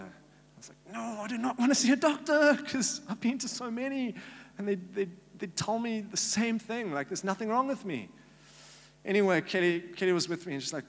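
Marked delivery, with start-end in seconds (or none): 0.9-8.1 high, exasperated refusal in an altered voice; stubborn refusal. Retold or imitated. Man refusing his friends' push to see a doctor, exasperated high refusal.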